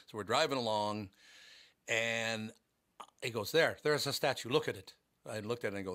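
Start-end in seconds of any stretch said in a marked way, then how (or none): 3.5-4.9 lightly voiced Irish cabbie; slightly lifted, insistent imitation of an Irish driver; attempted Irish accent. Taxi driver pointing out the statue, light Irish accent. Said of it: "the way the taxi driver did".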